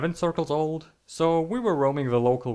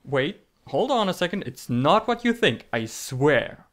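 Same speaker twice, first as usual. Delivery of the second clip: flustered protest; 3 semitones higher than usual. Acted. Defending himself to viewers.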